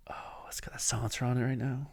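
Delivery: hushed, breathy admiration; soft awe, barely voiced; adoring whisper. Real, not acted. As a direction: whisper as if gazing at a treasure. Gazing adoringly at his rifle.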